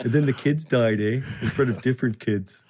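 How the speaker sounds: a mock Canadian accent with eh; imitating Canadians trading grim news; a light Canadian "eh" accent; Canadian gossip. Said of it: "Every story is".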